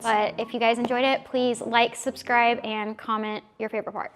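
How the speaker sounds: slightly out of breath. Real, not acted. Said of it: "Can't tell I'm out of breath".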